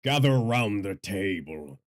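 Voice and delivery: slow, drawn-out storyteller's opening; storyteller intro. Pretend. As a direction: call listeners in like a storyteller. Rehearsing the stream intro, mic test.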